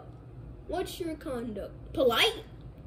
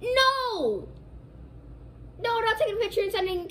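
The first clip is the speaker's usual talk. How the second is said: high, loud flat refusal; 8 semitones higher, 4 dB louder than usual. Acted. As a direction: shut it down hard. Dad refuses teacher's request.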